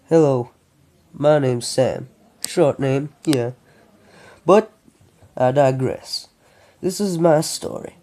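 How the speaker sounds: lightly put-on Texas accent. Sam introduces his own story, in an amateur Texas accent. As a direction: narrate as a Texan, not very convincingly. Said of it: "doing a Texas accent as much as he can".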